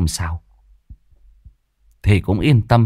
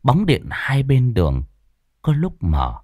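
hushed eerie narration. A narrator's reading. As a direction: draw the listener into the dark.

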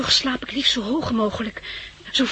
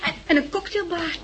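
delighted laugh; 5 semitones higher than usual. Acted. Delighted discovering luxury flat.

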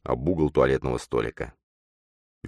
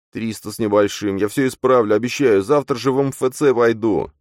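pleading; 7 semitones higher, 5 dB louder than usual. Acted. Matvey pleading with Nastya.

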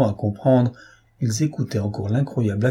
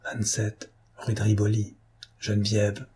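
hushed urgent whisper, barely moving the lips; 6 dB quieter than usual. A narrator's reading. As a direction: breathe it secretly to an ally. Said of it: "Cernine chuchota".

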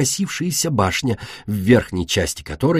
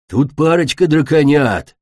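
loud hissing reptile growl; growling dragon; 4 semitones higher, 5 dB louder than usual. A narrator's reading. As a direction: growl it like an angry swamp dragon. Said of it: "прорычал земляной дракон". (громкое драконье рычание)

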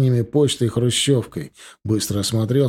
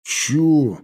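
higher-pitched puzzled question; a raised, surprised "huh?"; 4 semitones higher than usual. A narrator's reading. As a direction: ask it taken aback. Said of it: "удивился Лёня".

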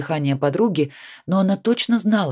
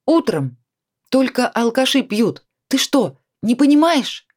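sharp, raised voice scolding her drinking friend; angry scolding; 8 semitones higher, 4 dB louder than usual. A narrator's reading. Nadya scolds her drinking friend in a raised angry voice. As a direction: snap at her, higher and louder. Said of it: "Надя внезапно страшно разозлилась".

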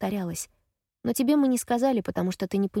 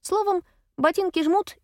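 mock ex's voice; 12 semitones higher, 4 dB louder than usual. Mock quoting ex's breakup line.

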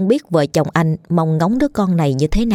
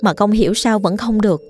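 higher, humble and pleading; daughter-in-law begging her mother-in-law, higher and meek; 4 semitones higher than usual. Acted. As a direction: beg forgiveness meekly.

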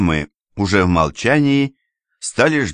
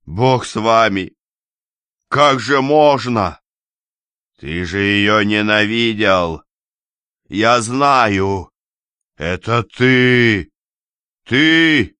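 rising fury; 4 semitones higher, 4 dB louder, slower than usual. Acted. Enraged father accuses son-in-law.

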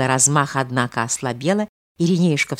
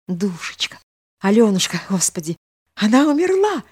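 horrified cry; 5 semitones higher than usual. A narrator's reading. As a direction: realise she is dead and cry out. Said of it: "с ужасом вскричал он". (с ужасом вскричал)

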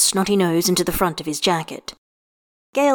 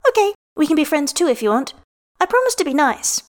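put-on grinning child; 8 semitones higher than usual. A narrator's reading. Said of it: "Hessie grins at him".

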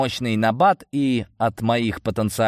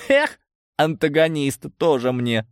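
higher, amused dismissal; laughing scoff; 6 semitones higher than usual. A narrator's reading. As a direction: scoff with a chuckle to start. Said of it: "засмеялся я". (насмешливо, посмеиваясь)

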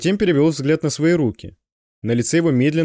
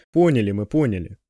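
gently agreeing; 3 semitones lower than usual. A narrator's reading. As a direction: humour him kindly. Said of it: "ласково согласился Кайман". (ласково, успокаивающе)

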